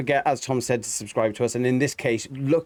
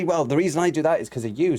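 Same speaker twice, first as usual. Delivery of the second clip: pitched-up blame-throwing comeback; defensive retort; 4 semitones higher than usual. Acted. Coach acts partner blaming the other, mildly higher defensive retort. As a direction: argue back, a touch higher.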